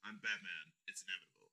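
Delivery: low-pitched villain-style Batman; Josh Brolin. Retold or imitated. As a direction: drop low for a weighty Batman. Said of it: "You just wanted to be like".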